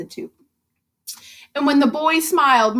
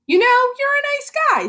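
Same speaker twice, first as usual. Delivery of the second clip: fast, high friendly rush; quick fond praise; 11 semitones higher, much faster than usual. Acted. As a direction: blurt out thanks. Elf thanking Murray.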